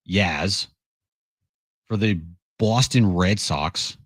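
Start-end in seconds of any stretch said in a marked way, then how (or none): 1.9-4.0 put-on weak, slow try at a Boston accent; bad Boston accent. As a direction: lightly fake a Boston accent, drawn out. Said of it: "that was an awful attempt at a Boston accent".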